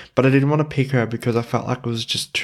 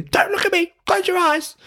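much higher, silly mock royal whine; silly queen voice. Quoting the silly side of Olivia Colman, high squeal. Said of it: "it played first the silly".

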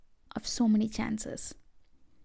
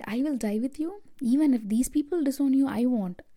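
higher, insistent retold vow; sure of himself; 3 semitones higher, 3 dB louder than usual. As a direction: act out Peter's cocksure promise, pitched up. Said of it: "he was so sure".

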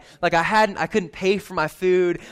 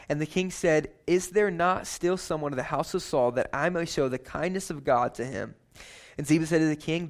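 measured, softer Bible reading; scripture reading; 3 dB quieter than usual. Acted. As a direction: read the passage to the congregation. Reads scripture passage.

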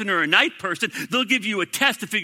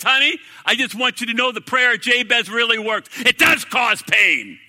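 wry husband's line, slowing right down on the last words; deadpan the bad news, stretched out; mock-cheerful news to wife; 4 semitones higher, 4 dB louder than usual. Husband reports firing to wife.

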